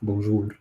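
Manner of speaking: bonjour with a rolled R at the end. Shown as a demonstration. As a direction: roll the R in bonjour. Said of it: "you can actually roll the R".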